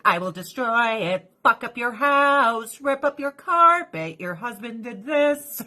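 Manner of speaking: slowed, rising mock villain threat; menacing cat voice. Woman voicing her cat's revenge threats.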